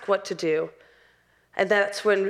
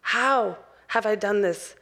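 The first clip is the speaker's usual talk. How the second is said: open-hearted repentance. Acted. Believer humbly asking God how they wronged him, earnest. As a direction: ask it humbly, with space between phrases. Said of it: "tearing your heart open and going".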